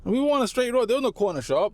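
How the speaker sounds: high-pitched incredulous retelling; mock indignant. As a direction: protest it high, as if stating the obvious. Indignant retold reply to the stranger.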